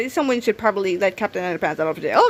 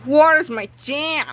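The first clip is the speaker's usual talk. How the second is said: slow shouted boast; 4 semitones higher, slower than usual. Acted. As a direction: boast it like a hero. Hero declares confidently.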